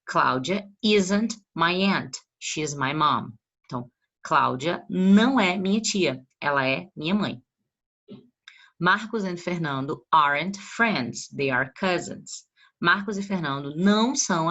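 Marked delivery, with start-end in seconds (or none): 0.0-3.3 teacher reading an English example slowly to students; slow model sentence. Shown as a demonstration. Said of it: "Vamos ver aqui uns exemplos". 8.8-12.5 deliberate, slow classroom read; teacher reading an English example slowly to students; slow model sentence. Shown as a demonstration. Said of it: "Vamos ver aqui uns exemplos".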